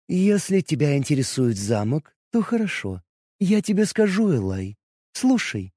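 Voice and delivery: bright ringing goddess voice, soft; ringing crystal chime voice. Acted. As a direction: let each word ring like a bell. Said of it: "Прекрасным звенящим голосом произнесла она".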